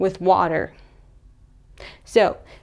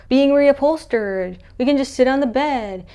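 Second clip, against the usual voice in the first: acted excuse; 5 semitones higher than usual. Louise makes excuse for missing chairs.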